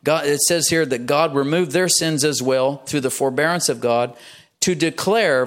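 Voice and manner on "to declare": deliberate, higher-pitched scripture reading; measured verse reading; slow reading. Real, not acted. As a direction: read it out with care. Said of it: "I'm gonna read it slowly".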